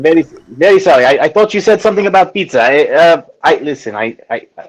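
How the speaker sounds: put-on flustered French-accented apology. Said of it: "this fucking accent".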